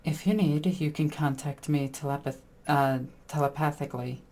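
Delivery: softly, as if into her ear; a hushed aside, not truly whispered; mock whisper. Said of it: "I'm gonna whisper that into her ear".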